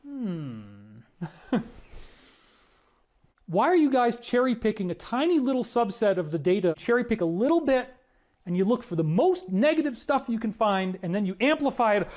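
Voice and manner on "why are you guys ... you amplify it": exasperated scolding. Acted. Mocking critics who cherry-pick data.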